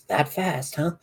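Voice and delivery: quiet teasing aside. Acted. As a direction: slip in a quiet dig. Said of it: "leans over to Nico and goes".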